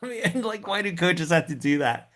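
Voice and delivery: mock whine broken by a laugh; laughing complaint. Griping to the audience about his coach, laughing.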